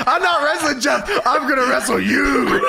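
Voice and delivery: lightly hammed-up angry wrestler; a touch of wrestling-promo bluster; Steiner. Acting out Steiner rushing the ring.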